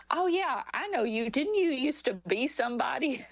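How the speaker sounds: lightly voiced teasing stranger; stranger at airport. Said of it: "And he goes".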